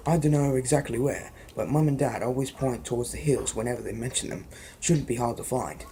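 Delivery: put-on a light British accent for Ron; easy British accent, casual tone. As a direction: read Ron's apology in a British accent. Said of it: "that's my British accent".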